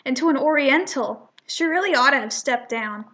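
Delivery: lightly voiced snide sneer; a hint of prejudiced scorn; snide cat. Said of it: "and he'll say".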